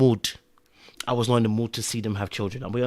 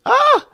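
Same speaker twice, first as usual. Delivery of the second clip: sudden high, loud "ah"; exclaimed ah; 8 dB louder than usual. Acted. Reacting to the child's imagined suffering, high loud exclamation. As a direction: burst out with a sharp ah.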